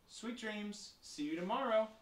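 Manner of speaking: high, sing-song good night; tender good night. Acted. Parents kissing children good night, tender. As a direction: wish sweet dreams in a high, fond lilt.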